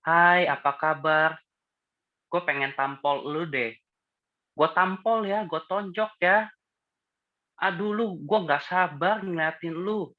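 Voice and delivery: mock-gentle menace, pitched high and slowed; sweet but threatening. Shown as a demonstration. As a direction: smile sweetly while promising violence. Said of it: "Tapi gimana kalau kayak gini?".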